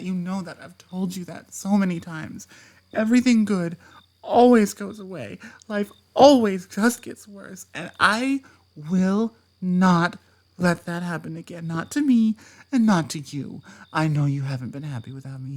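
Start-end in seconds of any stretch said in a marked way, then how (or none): 2.9-11.7 bitter outburst. Acted. Emotional rant about losing everything.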